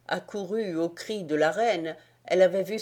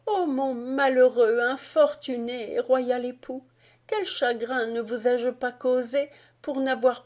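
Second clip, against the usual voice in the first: higher pleading queen's voice, a hint of sobs; lightly tearful queen, pitched up; sobbing queen; 7 semitones higher than usual. A narrator's reading. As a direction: beg your husband's forgiveness, much higher. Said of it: "d'une voix entrecoupée par ses sanglots".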